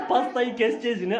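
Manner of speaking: can't stop laughing at the tiny cake. Real, not acted.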